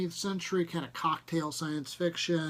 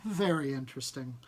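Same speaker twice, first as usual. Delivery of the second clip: polite doubt; 4 semitones lower than usual. Acted. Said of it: "I suppressed a shudder".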